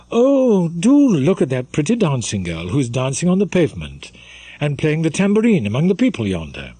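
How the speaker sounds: put-on high, eager girlish exclaim; a giddy young lady at the balcony; excited girl calling out. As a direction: point her out with delight. Girl excitedly spots the dancer.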